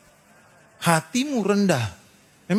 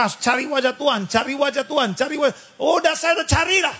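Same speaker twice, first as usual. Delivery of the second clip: bored mocking repeat; 6 semitones higher than usual. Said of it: "kita bosen didengarin orang berkata".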